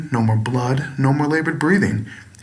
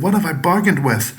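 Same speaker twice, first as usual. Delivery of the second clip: shriek; 5 semitones higher than usual. Acted. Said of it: "The man shrieked out once again".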